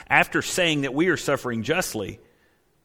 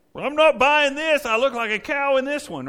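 much higher and louder, indignant; complaining shopper; 10 semitones higher, 3 dB louder than usual. Retold or imitated. Shopper arguing with an honest mirror, loud and indignant. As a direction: scoff at the mirror like a fed-up customer.

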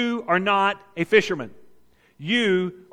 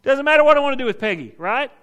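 forceful command; 6 semitones higher, 6 dB louder than usual. Acted. Jesus asserts lordship, acted forcefully.

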